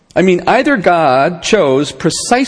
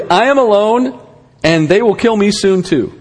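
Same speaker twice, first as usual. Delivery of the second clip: higher, pleading cry in mild retelling; a retold desperate plea to God, pitched up; 5 semitones higher than usual. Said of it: "He cries out to God, literally".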